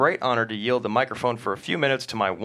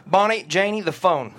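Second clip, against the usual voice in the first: urgent call; 6 semitones higher, 4 dB louder than usual. Acted. Shouted order in hostage scene.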